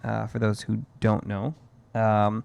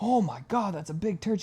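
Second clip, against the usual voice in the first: little daughter voice; 9 semitones higher, 4 dB quieter than usual. Retold or imitated. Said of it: "She's like".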